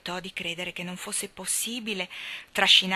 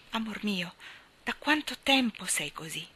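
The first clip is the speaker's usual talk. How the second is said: firm voice. Acted. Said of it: "mi chiese infine con voce ferma".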